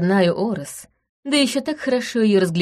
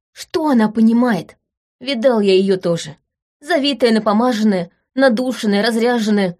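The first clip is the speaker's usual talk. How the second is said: scornful, raised, spitting out each word; contemptuous tirade; 4 semitones higher, 3 dB louder than usual. Acted. Veron rants about the spoiled heiress, contemptuous. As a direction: list her finery with disgust. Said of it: "выплюнул он".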